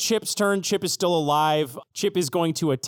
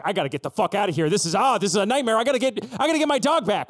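fast, mild mock panic; lightly voiced frantic character; panicked Bethella; 3 semitones higher, faster than usual. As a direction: rush it out like escaping a fire.

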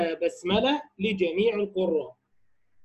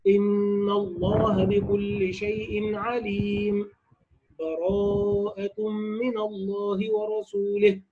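recitation with full stop; much slower than usual. Shown as a demonstration. Teacher demonstrating qat' between Anfal and Tawba, slow recitation. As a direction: stop on "عليم", breathe, then start "براءة". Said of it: "القطع أي الوقف على عليم مع أخذ نفس".

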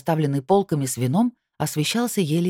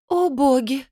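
high, louder alarmed cry; agitated gasp; 10 semitones higher, 3 dB louder, slower than usual. Acted. Anora arrives behind them, alarmed and high. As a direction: blurt it out in alarm. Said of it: "послышалось сзади взволнованное".

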